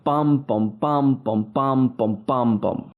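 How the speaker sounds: steady strong-weak beats on each bum; trochaic rhythm. Shown as a demonstration. Lecturer showing students the trochaic tetrameter beat, rhythmic chanting. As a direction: tap out the meter, bum bum, evenly. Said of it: "the rhythm of it would be something like".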